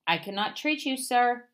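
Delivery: a firm shout of refusal through the window; loud refusal with the last word pushed hardest. A narrator's reading. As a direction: call down to the fox that you won't treat him. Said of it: "Doctor DeSoto shouted".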